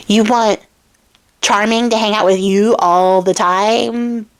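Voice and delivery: slow, rising in disbelief on husband; incredulous king. Retold or imitated. King to bride, slowly incredulous. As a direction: spell it out, can't believe it. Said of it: "the king's like".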